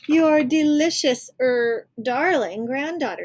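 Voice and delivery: put-on wolf faking a high, loud little-girl voice; wolf pretending to be the granddaughter, high and slow; high-pitched voice. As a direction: squeak it high to fool Granny. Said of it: "said the wolf in a high-pitched voice".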